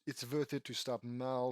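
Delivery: put-on light Russian accent, W said as V; hint of a Russian accent. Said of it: "Russian accent?".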